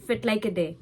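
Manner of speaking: lightly voiced Aberdeen Doric greeting; a hint of Doric: Fit like a day. Shown as a demonstration. Showing viewers the local Doric greeting, lightly Doric. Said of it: "They say".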